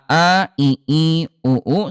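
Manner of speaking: "a, i, u" with a clean glottal start; hamzah-style "a, i, u"; hamzah vowels. Shown as a demonstration. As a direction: say "a, i, u" with a sharp hamzah. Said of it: "hamzah ada di pangkal lidah".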